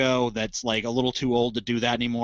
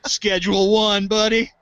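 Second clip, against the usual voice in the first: higher, louder, laughing as he says it; 6 semitones higher, 5 dB louder than usual. Real, not acted. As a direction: laugh the words out. Laughing at the schedule joke.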